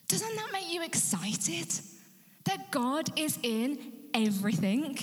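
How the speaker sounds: rising eager appeal; excited question. Real, not acted. Preacher asks congregation, rising.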